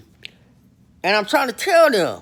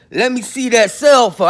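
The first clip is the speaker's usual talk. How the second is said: louder, pressing demand to the cellmate; confronting demand; 5 dB louder than usual. Shown as a demonstration. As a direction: lean in hard and insist on the phone. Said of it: "I got up on him just like that".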